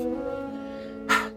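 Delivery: long heavy exhale; dramatic sigh. Acted. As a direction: sigh before the refusal. Dramatic breath within the soliloquy.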